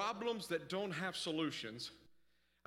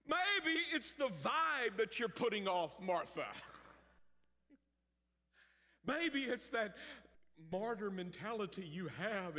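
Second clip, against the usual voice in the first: teasing; 4 semitones higher than usual. Acted. Preacher teasing Martha.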